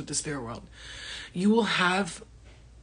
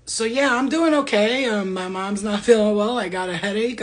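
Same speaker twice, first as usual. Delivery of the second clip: imitating friends; 3 semitones higher, 6 dB louder than usual. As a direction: put on a fake casual excuse. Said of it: "They're like".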